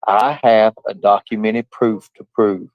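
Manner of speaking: "I have a documented proof to prove" read slowly, word by word; mock-careful reading aloud. Shown as a demonstration. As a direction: read it out slow and deliberate, like a hard text. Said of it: "I'm gonna do my best to try to read it".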